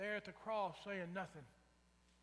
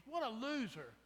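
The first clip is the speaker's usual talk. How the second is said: mocking sneer; 5 semitones higher, 4 dB louder than usual. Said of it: "when they were mocking Jesus".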